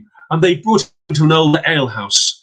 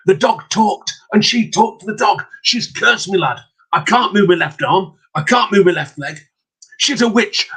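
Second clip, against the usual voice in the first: desperate father; 4 semitones higher than usual. Acted. Cursed father pleads with son.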